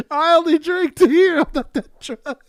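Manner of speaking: put-on high, loud, slow drunk insistence; drunk guy voice. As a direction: defend it like a proud drunk. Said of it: "He goes".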